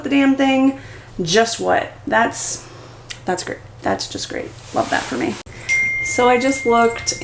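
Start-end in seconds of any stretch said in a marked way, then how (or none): 2.1-5.4 sarcastic. Real, not acted. Sarcastic after cracked bike.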